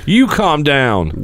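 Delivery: slow, drawn-out you calm down; slow mock retort. Host teasing cohosts, slow drawn-out taunt. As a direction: stretch it out, taunting.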